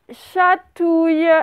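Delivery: chatouille drawn out slowly; teacher slowly dictating the last word chatouille; slow dictation. Shown as a demonstration. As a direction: give chatouille slowly, syllable by syllable. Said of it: "le dernier mot".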